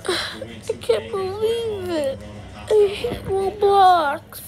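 slow, whiny exasperation; fed up. Pretend. Kid giving up on Roblox, fed up. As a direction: drag the words out in mock despair.

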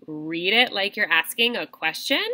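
"question" lifted at the end like asking; question intonation. Shown as a demonstration. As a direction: let "question" rise as if unsure. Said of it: "make your voice higher at the end".

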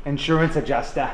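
Cockney insurance adjuster; playful London accent. Retold or imitated. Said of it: "You guys sound like you're doing a Cockney impression".

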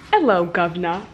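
stereotypical cheeky British greeting; mock British accent. Mocking how most people fake British, exaggerated British accent. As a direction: imitate a bad British accent. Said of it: "when they try to do a British accent, they always make it like".

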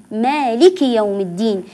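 مالك with a long alif after the meem; correct reading. Shown as a demonstration. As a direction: stretch the first vowel of مالك. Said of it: "والصواب قلنا بالأمس أن نقول مالك".

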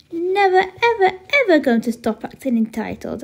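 emphatic, defiant refusal starting high; bratty, emphatic defiance. Acted. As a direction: dig in stubbornly, hitting each "ever". Defiant younger sister refusing to behave.

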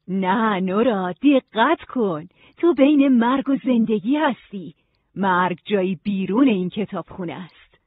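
slow, emphatic correction; firm, deliberate librarian voice; insistent librarian guide. Acted. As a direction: make her pay attention, word by word.

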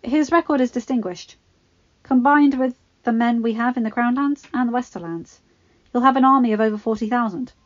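oil every word; oily-voiced Littlefinger. Littlefinger flattering the king, oily. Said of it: "a voice dripping with oiled words".

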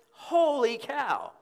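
high, slow, loud drawn-out exclamation; Harry Caray call. Retold or imitated. Preacher imitating Harry Caray's famous home run call. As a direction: stretch it out like the old ballpark voice. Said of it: "That came from Harry Carey".

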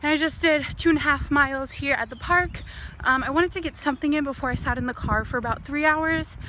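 breathy after a jog; out of breath. Real, not acted. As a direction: still winded from running. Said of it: "I'm out of breath".

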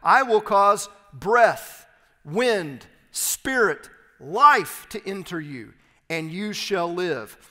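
slow, weighty proclamation, opening loud; emphatic scripture reading. Acted. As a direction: declare each word separately, with force. Reads God's promise with weight.

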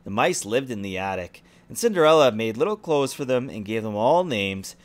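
lively storybook reading; story narration. A narrator's reading. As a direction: read it like a bedtime story. Reads fairy tale to child.

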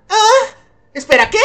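puzzled, kept down in pitch; taken aback. Acted. Reacting to a sudden invitation, taken aback.

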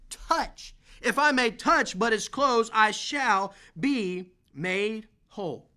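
emphatic, measured Bible reading; scripture reading. Acted. Preacher reading Mark to the church, emphatic. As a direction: read the verse like you mean it.

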